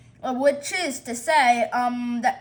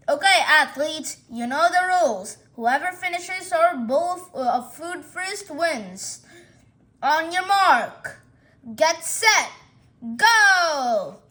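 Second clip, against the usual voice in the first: race starter. Acted.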